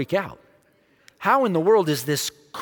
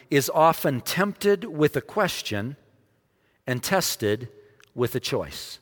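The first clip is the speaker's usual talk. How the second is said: slow, falling emphasis; slower than usual. Shown as a demonstration. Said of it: "Humanity is often tempted with a question".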